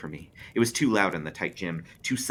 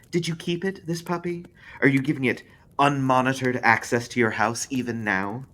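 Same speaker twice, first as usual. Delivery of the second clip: higher, insinuating spindly man; spindly man questioning Jackie, raised; spindly man probing; 8 semitones higher, 6 dB louder than usual. Acted. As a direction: prod her like a sly inquisitor.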